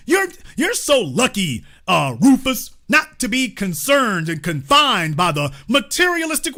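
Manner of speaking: smug, sweet condescending voice; mock white elite. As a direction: patronize him like a smug rich man. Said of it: "They sell us symbolism".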